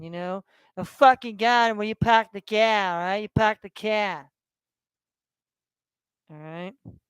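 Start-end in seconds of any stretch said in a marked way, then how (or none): 0.8-4.3 a light mock Boston accent, "pack the cat" for park the car. To his viewers, mocking how they talk in Boston, light Boston accent. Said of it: "That's how they talk in Boston".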